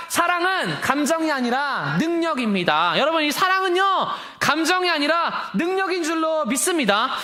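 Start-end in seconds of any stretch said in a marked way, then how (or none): 0.1-3.0 congregation recital. Acted. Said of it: "시작".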